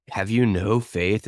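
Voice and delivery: slow, mildly imitated reproach; humiliating rebuke. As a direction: put them to shame, drawn out. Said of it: "almost a humiliating thing".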